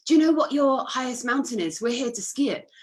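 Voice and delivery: lightly voiced teammate quizzing a stranger, pitch lifted; imitated quizmaster question. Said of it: "quiz the air hostesses".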